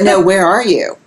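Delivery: quoted repeat, pressing for a real answer; insistent retold question. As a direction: press the question a little harder. Manager repeats his misunderstood question insistently.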